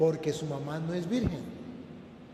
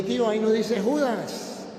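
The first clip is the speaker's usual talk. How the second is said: retold correction; 2 semitones higher, 4 dB louder, slower than usual. Priest retells correcting his uncle.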